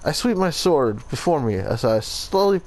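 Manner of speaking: hammy Italian accent drifting toward Russian; attempted Italian accent. Shown as a demonstration. Player reading the memory log aloud, attempted Italian accent. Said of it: "I'm trying to do an Italian accent".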